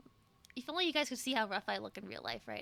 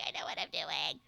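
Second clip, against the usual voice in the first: low deadpan; 9 semitones lower than usual. Pretend. Repeated low take.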